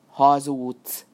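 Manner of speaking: loud, sharp accusation; indignant retort. Acted. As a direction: fling it back at him. Burattino retorts to the fox.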